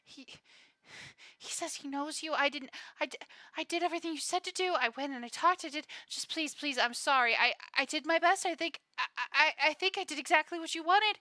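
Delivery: nervous, stumbling, pleading; frightened servant begging forgiveness; stammering fear. Acted. Servant stammers apologies to his master, frightened. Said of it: "he's going to start quickly stammering".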